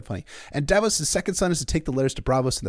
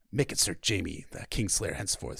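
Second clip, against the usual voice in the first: a hint of a low, jaw-clenched stern king; lightly voiced grim king, through a tight jaw; Stannis voice; 6 semitones lower, 6 dB quieter than usual. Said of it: "I always try to clench my jaw when I do the Stannis lines".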